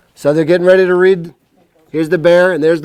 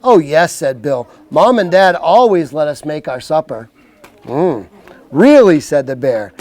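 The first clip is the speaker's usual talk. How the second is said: slow, clear storybook voice; reading to children. Acted. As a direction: read it like a bedtime book. Reads picture book to kids.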